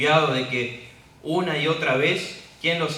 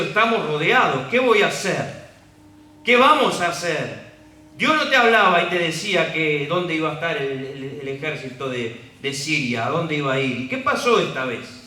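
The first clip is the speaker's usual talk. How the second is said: panicked servant; 3 semitones higher, 6 dB louder than usual. Acted. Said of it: "Este siervo le dice a Eliseo".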